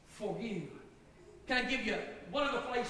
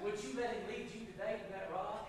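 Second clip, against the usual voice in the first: soft, lowered altar-call voice; hushed pastoral invitation; gentle appeal; 7 dB quieter than usual. Real, not acted. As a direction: drop down and plead quietly. Preacher makes a quiet appeal.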